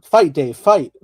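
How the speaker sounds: playful rallying cry. Pretend. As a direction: cheer him on to fight. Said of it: "mock rallying cry".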